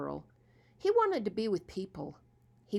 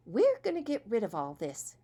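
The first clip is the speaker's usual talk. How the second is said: cheery; 4 semitones higher, 5 dB louder than usual. Acted. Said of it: "she said in a cheery way".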